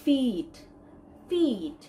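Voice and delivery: ফিট with a long 'ee'; model pronunciation. Shown as a demonstration. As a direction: say ফিট slowly, holding the vowel as 'feet'. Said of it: "I এর নিচে আমরা দেখতে পাচ্ছি". (লম্বা ঈ দিয়ে ফিট)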